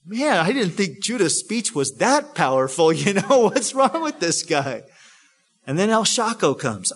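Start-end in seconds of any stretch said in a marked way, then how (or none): 0.1-4.8 lightly acted, amused puzzlement with a laugh; baffled bystanders. Brothers reacting to weeping Joseph, baffled and amused. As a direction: mutual aside among puzzled brothers.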